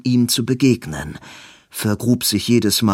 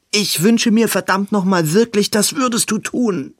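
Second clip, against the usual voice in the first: fervent plea; 10 semitones higher, 3 dB louder than usual. Acted. Robin pleads with Edwin.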